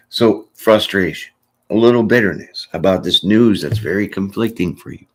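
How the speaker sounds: usual speaking voice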